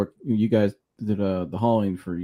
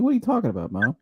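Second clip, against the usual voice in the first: pitched-up, incredulous question; retold bewildered reply; 5 semitones higher, faster than usual. Son on the phone to mom, retold incredulous. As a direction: replay being baffled, voice jumping up.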